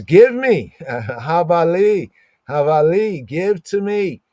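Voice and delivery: high pleading beg. Retold or imitated. Rachel begging her sister for the mandrakes, high pleading.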